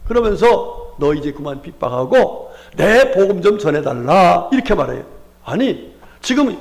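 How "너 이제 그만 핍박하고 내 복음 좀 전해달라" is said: Jesus commissioning. Acted.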